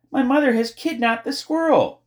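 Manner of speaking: high, loud, urgent cry; shouting. A narrator's reading. Girl telling neighbor of squirrel kidnapping, urgent shout. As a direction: shout out the alarming news. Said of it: "shouted Flora".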